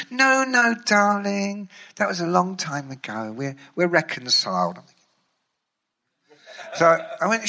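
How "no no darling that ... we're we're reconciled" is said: lightly voiced sugary reassurance; smooth it over, darling; Sharon's sweet coaxing. Sharon brushing off the old feud, mild sugary coaxing. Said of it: "she talks to you like this".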